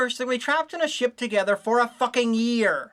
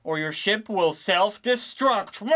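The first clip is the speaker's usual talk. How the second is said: mock mission briefing; slower than usual.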